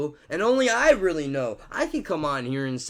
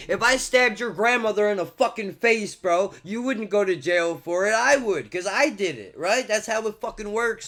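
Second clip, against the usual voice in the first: higher, louder exasperated argument; heated argument; 6 semitones higher, 3 dB louder than usual. Real, not acted. Vlogger argues his stabbing example, heated. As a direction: hammer the point home, worked up.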